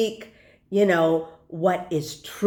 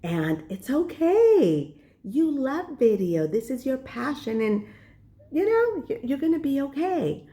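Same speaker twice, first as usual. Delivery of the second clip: soothing self-talk; 4 semitones higher than usual. Retold or imitated. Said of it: "I talk myself out of it".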